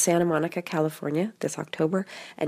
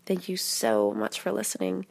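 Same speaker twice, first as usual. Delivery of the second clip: sick voice, cough drop in mouth; 4 dB quieter than usual. Real, not acted. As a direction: talk through a cold and lozenge. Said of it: "through my sick voice with my cough drop".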